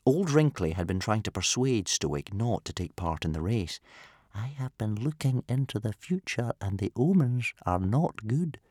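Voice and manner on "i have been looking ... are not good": put-on whispering old man. A narrator's reading. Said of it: "whispered the old man".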